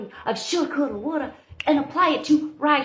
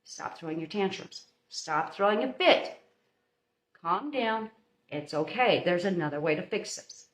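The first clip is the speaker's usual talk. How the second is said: calm parent; 3 semitones lower, 5 dB quieter than usual. Retold or imitated. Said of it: "you step in there and you go".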